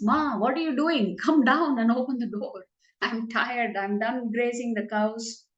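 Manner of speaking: put-upon son calling to his mum; exasperated son. Acted. Son calls up to mother.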